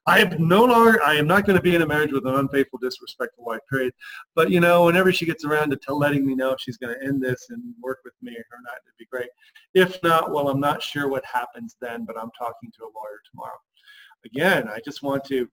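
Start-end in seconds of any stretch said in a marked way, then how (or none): 0.1-3.9 wishy-washy. Shown as a demonstration. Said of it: "We, we get wishy-washy". 4.3-13.6 wishy-washy hedging. Shown as a demonstration. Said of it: "We, we get wishy-washy".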